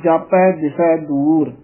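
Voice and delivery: ਦਿਸੈ with a soft, undoubled s. Shown as a demonstration. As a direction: say ਦਿਸੈ lightly, no doubled consonant. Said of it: "ਦਿਸੈ ਪੋਲਾ ਹੀ ਬੋਲਣਾ ਹੈ".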